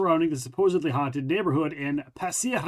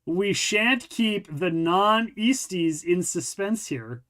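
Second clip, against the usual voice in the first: mock-posh reading; much slower than usual. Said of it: "What the fuck kind of phrase is that?".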